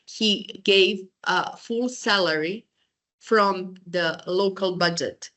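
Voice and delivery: slow, spelled-out delivery with pauses; deliberately slow. Real, not acted. Lecturer explaining a policy audiences misheard, deliberately slowly. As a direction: lay it out slowly, piece by piece. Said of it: "say it very slowly".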